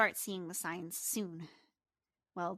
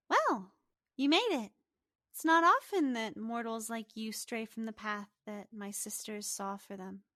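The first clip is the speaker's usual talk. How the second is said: put-on teenage goddess greeting a mortal, opening higher and louder; a hint of a playful goddess; lightly voiced girl goddess; 3 semitones higher, 4 dB louder than usual. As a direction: lilt lightly like a knowing young deity. Game master voices young goddess.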